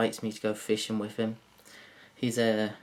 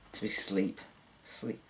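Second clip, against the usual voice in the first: ordinary talk, nothing marked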